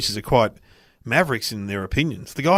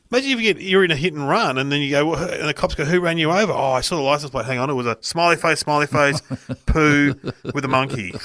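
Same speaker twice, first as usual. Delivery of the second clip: mock story voice; 5 semitones higher than usual. Son's comical mock cop story.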